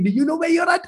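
high, called-out voice of God. Retold or imitated. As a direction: ask it high, like a call from above. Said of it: "he's like".

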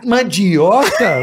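very slow, stretched mandioca; drawn-out mandioca. Pretend. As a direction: drag the word out slowly. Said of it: "Você quer que eu que".

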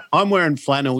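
chuckling through the words; laughing. Real, not acted. Podcaster laughing to his host about their shady look. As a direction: laugh while you describe the outfit.

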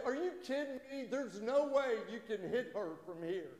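high, disbelieving joke punchline; incredulous. Retold or imitated. Golfer to his buddy about the shot, incredulous. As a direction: act out a buddy who can't believe it.

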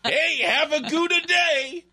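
very high, slow falsetto farewell; goofy ad voice. Pretend. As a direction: wave off customers in a silly voice.

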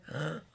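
a quick sharp gasp of mock fright; scared gasp. Retelling her old panic, a mock frightened gasp. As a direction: gasp like you just caught yourself getting attached. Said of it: "get scared and be like".

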